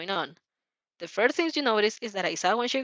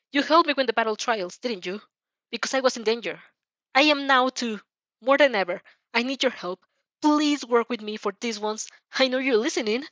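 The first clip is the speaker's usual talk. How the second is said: desperate plea; 3 semitones higher, 3 dB louder than usual. Acted. Pleading to the shadow.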